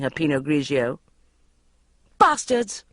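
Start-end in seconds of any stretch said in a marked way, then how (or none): 2.2-2.8 loud tipsy yell; rowdy yell; yelled curse. A narrator's reading. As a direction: shout it along with the others. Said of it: "I yelled".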